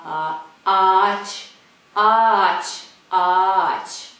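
ağaç with a drawn-out vowel for ğ; Turkish soft g. Shown as a demonstration. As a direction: stretch ağaç slowly, no g sound. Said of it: "it's like ağaç".

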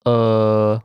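"Uh." as a relaxed mid-central uh; vowel demo. Shown as a demonstration. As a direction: say "Uh." with the tongue centred and still. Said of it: "It's a".

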